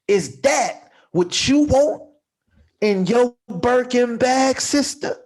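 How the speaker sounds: slow questioning with a pause before each phrase; nice and slow. Shown as a demonstration. Challenging a sister in a mock sermon, nice and slow. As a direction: draw out the question, pausing between phrases. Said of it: "nice and slow".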